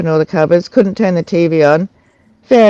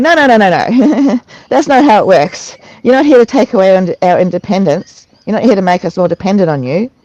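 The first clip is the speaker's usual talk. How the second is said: animated mock-exasperated refusal; indignant objection; 2 semitones higher than usual. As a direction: cut in to object, half laughing. Retold objection to staff.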